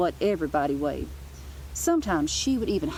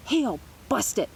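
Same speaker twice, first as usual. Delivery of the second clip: mock yell. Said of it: "she would yell at recess".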